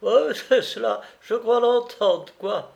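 very high, loud teasing; amused cook. A narrator's reading. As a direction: play along in a high cook's voice. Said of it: "répondait".

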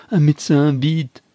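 loud, high, urgent call; acted frantic shout; desperate cry. A narrator's reading. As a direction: shout for help in despair. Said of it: "cria Adolphe désespérément".

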